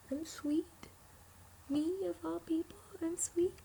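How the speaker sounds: high, breathy whisper of disbelief; disbelieving whisper. Retold or imitated. After the boss calls them a sweet child, a high incredulous whisper. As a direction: whisper it, astonished to be called sweet.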